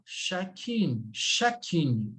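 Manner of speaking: chacune with pouted U and sounded final N; pouted pronunciation. Shown as a demonstration. Teacher shows class the pout, demonstrated pronunciation. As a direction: round the lips on the U of "chacune". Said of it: "você pronuncia com o biquinho".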